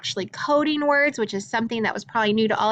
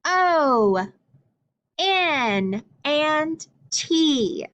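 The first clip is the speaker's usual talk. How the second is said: letters named with the class; 4 semitones higher, much slower than usual. Shown as a demonstration. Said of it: "What about this letter?".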